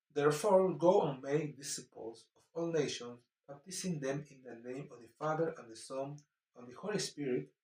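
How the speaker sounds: slow, solemn verse reading; scripture reading. Acted. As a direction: read each phrase out deliberately. Reads Matthew 28 aloud.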